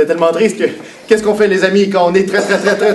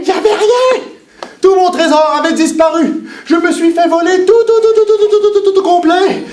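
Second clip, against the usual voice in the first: despairing pirate cry; 12 semitones higher, much faster than usual. Acted. Pirate lamenting stolen treasure.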